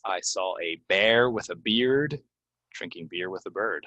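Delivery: "bear", "beard", "beer", "bird" kept distinct; tongue-twister demo. Shown as a demonstration. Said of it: "go ahead and say it".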